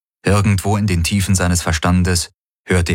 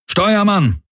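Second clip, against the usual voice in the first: calling out; 13 semitones higher than usual. A narrator's reading. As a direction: summon the helmsman. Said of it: "rief der Feldherr".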